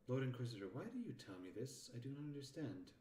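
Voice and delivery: mistaken take on a puzzled underling; lightly voiced character, questioning an Inquisitor; wrong character voice. Character asking the Lord Inquisitor why, puzzled character voice. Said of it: "that was the wrong character voice".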